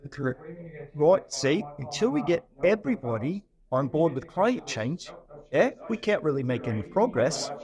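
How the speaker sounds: put-on a rough, lightly done New Zealand accent. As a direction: imitate a Kiwi accent, badly. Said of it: "pardon my, my really terrible New Zealand accent".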